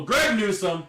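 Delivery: high, loud cry of excitement; delighted exclamation. Real, not acted. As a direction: burst out with the name, thrilled. Delighted at a card pull.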